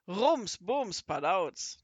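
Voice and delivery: loud, slow clattering bangs; crash sounds. A narrator's reading. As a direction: act out the crash. (laute, langsame Krachlaute)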